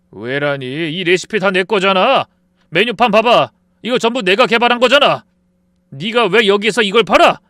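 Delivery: loud, rising outrage; furious yelling at an old friend; angry confrontation. Acted. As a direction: shout him down for the stolen recipe. Confronting friend over stolen recipe.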